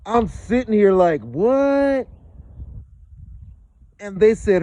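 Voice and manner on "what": shocked what. Retold or imitated. Caught off guard by FBI call.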